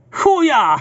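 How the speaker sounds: high shout into laughter; frustrated shout. Real, not acted. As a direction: yell it then burst out laughing. Process restarts again.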